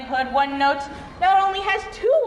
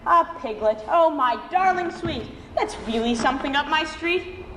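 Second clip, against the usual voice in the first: Red Riding Hood. Acted. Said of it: "Riding Hood said".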